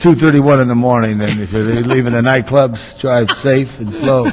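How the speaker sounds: smooth late-night DJ voice; radio DJ. Pretend. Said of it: "You sound a little D J".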